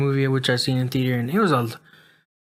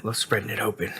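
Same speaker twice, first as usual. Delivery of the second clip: whispered; 3 semitones lower, 8 dB quieter than usual. Real, not acted. Joking about spreading a yawn.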